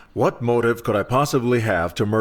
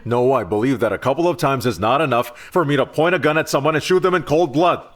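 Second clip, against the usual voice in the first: ordinary talk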